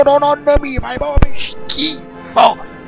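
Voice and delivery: slow, loud disgusted Neapolitan outburst; disgusted shout. Acted. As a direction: drag out the disgust in a Neapolitan accent. Chef tastes risotto, disgusted.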